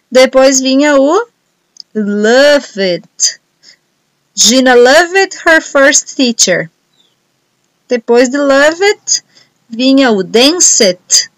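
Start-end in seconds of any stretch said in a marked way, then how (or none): 4.3-6.7 very slow, word-by-word dictation read. Shown as a demonstration. Teacher dictating the sentence to students, very slowly. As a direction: dictate it slowly so everyone can write.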